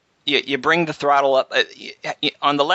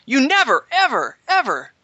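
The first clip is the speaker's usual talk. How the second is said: very high-pitched mock scolding in a German accent; German-accented yelling. Pilot imitates Brunhilde scolding him at engine start, high German-accented yell. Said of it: "yelling at me in her German accent".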